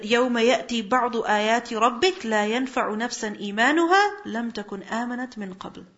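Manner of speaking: fast, fluent chanted Arabic; Quran recitation. Acted. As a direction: recite the ayah in one flowing breath.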